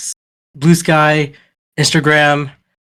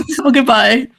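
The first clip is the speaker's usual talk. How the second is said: put-on Irish accent; 9 semitones higher than usual. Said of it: "in the Irish accent?".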